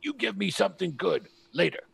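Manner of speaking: lightly voiced goblin talking in broken common; a touch of a goblin bargaining in broken speech. Goblin handing back the coat, mild broken-common goblin voice. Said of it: "in really broken common goes".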